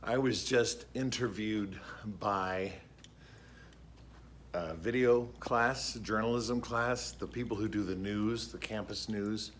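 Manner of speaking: slightly out of breath after push-ups. Real, not acted. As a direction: talk while catching your breath. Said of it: "excuse me, I'm a little out of breath".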